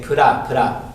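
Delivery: pura, pura with an added vowel; wrong pronunciation. Shown as a demonstration. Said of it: "make a mistake by saying".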